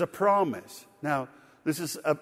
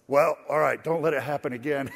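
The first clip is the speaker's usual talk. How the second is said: grudging driver. Retold or imitated. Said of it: "or he said, like".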